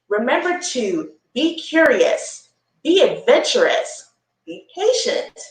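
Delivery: slow, bright storybook reading; reading to children. A narrator's reading. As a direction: read it to the little ones like a gift. Reading book text aloud to children.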